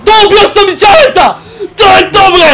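triumphant cheer. Real, not acted. Celebrating killing the friends.

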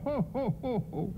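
marvel, then break into a jolly Santa laugh; booming-Santa manner, played high and light. Ex-Santa laughs about the snow.

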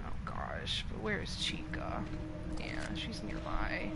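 hushed, breathy whisper. Real, not acted. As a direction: whisper so she can't hear. Hiding near Chica.

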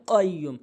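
কাইয়্যুম starting with a back-of-tongue q; deep qaf. Shown as a demonstration. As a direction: start কাইয়্যুম with tongue root against the palate. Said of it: "জিব্বার গোড়া উপরে তালুর সঙ্গে".

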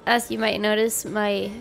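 stuffy nose from a cold; blocked nose, nasal tone. Real, not acted. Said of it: "if I sound a little bit nasally".

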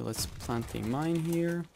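ordinary talk

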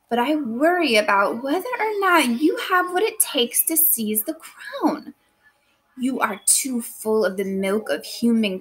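lightly voiced Lady Macbeth reading her letter reply; a hint of a scheming queen urging her husband; teacher reading Lady Macbeth's lines to the class, lightly acted. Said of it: "now I'm Missus Pittman again here".

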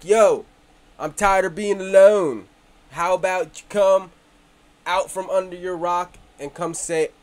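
a loud, hammed-up attempt at a British or Aussie accent; mock UK accent, shouted playfully. Calling out to lonely viewers in a mock British accent. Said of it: "I don't know what that accent is".

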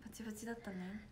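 whispered aside. Real, not acted. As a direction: breathe it out without voice. Aside after loud lashes chat.

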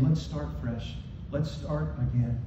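low, soft invitation; gentle reassurance. Acted. Jesus offering failed disciples a fresh start, gentle. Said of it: "showing them that he loves them".

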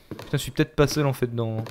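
hushed, soft voice; whispering while hiding. Real, not acted. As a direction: keep it down so it can't hear. Hiding from the monster.

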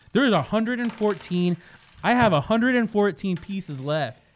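loud, hammed-up proclamation; playfully overblown, emphatic announcement; silly. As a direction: boom it out slowly in mock-grand silliness. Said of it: "I'm being silly".

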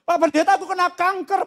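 meniru ibu meratap, nada naik; pura-pura menangis mengadu ke pendeta; menirukan tangis kejar. Retold or imitated. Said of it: "Dia nangis kejar". (menirukan jemaat yang menangis)

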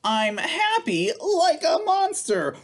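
playful storybook monster. Acted. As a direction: roar it out like a silly monster.

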